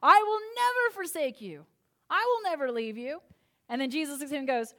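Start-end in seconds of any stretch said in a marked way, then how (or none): 0.0-3.2 higher and louder, proud vow; loud, boastful promise of loyalty; bold declaration. Retold or imitated. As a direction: declare it with swaggering hubris. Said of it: "boldly and with great hubris declared".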